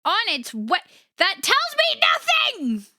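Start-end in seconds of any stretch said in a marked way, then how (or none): 1.2-2.8 high, exasperated yelp at the phone; exasperated outburst. Real, not acted. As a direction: throw it up high in frustration.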